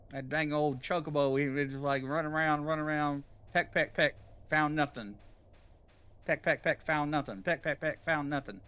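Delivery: country Southern yarn-telling voice; Southern accent. Pretend. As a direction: tell it in a Southern twang. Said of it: "Making fun of your southern accent?".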